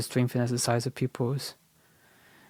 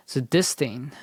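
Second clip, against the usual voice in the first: whisper; slower than usual. Real, not acted. Muttering to self while reading.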